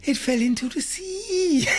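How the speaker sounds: laughing through the words; cracking up mid-sentence. Real, not acted. Laughs telling absurd news.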